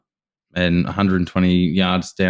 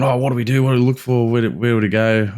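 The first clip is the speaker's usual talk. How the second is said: eager novice questions, pitched up; excited novice; 4 semitones higher than usual. Retold or imitated. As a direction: imitate your own excited beginner chatter. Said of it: "all that new stuff, excitement".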